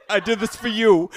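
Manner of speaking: quick, emphatic mock-romantic declaration; insistent mock boast. Sprayer insisting to a partner, insistent mock boast. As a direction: push it out fast and proudly.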